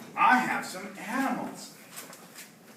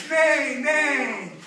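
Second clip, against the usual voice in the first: higher, long falling neighs; horse neigh; 5 semitones higher, 4 dB louder than usual. Acted. Teacher leading children in horse sounds, high neighing. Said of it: "A horse says".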